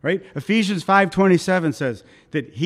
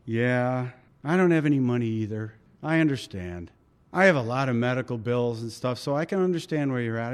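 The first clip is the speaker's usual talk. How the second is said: lightly voiced deflated salesman, lower; resigned sympathy; 4 semitones lower than usual. Salesman admitting he has no money either, mildly resigned. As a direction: drop the pitch and commiserate, a touch resigned. Salesman finally gives in, commiserating.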